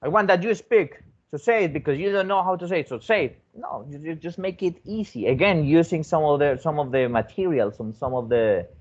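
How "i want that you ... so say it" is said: bossy demanding teacher. Retold or imitated. Teacher demanding a child speak, mildly hammed-up bossy. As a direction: press the kid to speak, mock strict. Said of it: "you are not going to say like".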